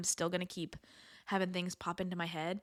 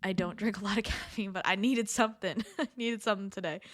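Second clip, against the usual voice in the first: talking through hiccups; a hiccup breaking in. Real, not acted. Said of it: "I have the hiccups".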